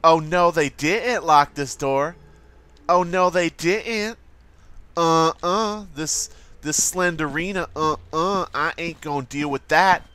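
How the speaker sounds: sassy "oh no they didn't" voice; sassy attitude, mock outrage. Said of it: "so I'm always like".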